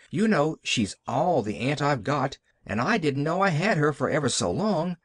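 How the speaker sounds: lightly voiced eager little girl; Pollyanna. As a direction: chatter with a touch of childlike wonder. Child Pollyanna talks of her aunt.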